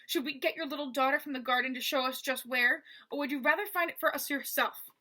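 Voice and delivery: lightly voiced rasping thug; rasping villain. Basta taunting Mo through the wall, light rasping menace. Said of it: "rasping like a cat's tongue".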